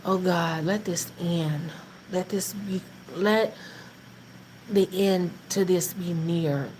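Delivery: slow, soft pleading prayer; quiet prayer. Retold or imitated. Wife praying to God about husband's job, softly. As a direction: pray it low and slow. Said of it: "praying and asking the Lord".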